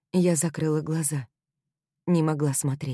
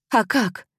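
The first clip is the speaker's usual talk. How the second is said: higher, louder angry demand; a sharp, raised angry question; angry retort; 6 semitones higher, 4 dB louder than usual. A narrator's reading. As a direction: throw the question back in anger. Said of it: "разозлилась я".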